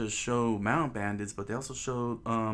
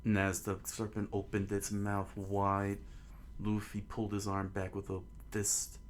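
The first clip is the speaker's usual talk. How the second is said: measured, understated storytelling voice; story narration; 5 dB quieter than usual. A narrator's reading. Narrator setting out the townspeople watching at port, measured storytelling. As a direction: read it as a storyteller setting a scene.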